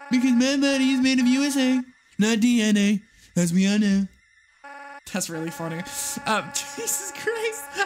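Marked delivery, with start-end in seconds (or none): 0.1-4.1 louder, brash Trump impression. Game Trump flattering Hillary, brash loud impression. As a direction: puff up like a boastful president. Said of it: "my Trump voice is too good".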